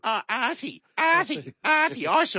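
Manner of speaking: high-pitched teasing call; needling, repeated high call; mocking name-call.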